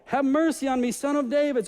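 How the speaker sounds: crying out. Acted. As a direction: shout for mercy over the crowd. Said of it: "he was crying all the more".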